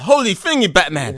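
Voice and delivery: loud, high Robin exclamation; Robin impression. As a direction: shout it like Robin. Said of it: "Robin from Batman".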